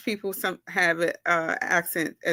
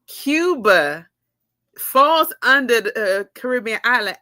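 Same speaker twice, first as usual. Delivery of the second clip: louder, stressing Cuba in disbelief; amazed emphasis; 2 semitones higher, 5 dB louder than usual. Real, not acted. Telling viewers a fact that surprised her, louder. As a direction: land on Cuba like news to you. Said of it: "I didn't know that".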